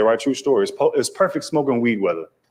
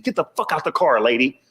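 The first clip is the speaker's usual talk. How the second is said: imitated yelling; 3 semitones higher than usual. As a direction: act out an angry man ordering someone out. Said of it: "starts yelling in the passenger seat".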